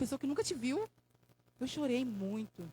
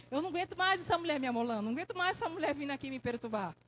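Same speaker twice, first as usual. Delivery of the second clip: fed-up judge; faster than usual. Acted. Fed-up judge quoted from parable.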